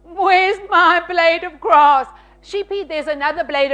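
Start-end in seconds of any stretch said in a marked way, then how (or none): 0.0-2.1 complaining sheep, slow and wobbly; slow bleating sheep voice. Acted. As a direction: whine it like a needy sheep. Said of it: "Sheep bleat".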